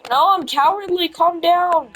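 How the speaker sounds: teasing impression of someone pleading; mock pleading. Mocking a friend backing down.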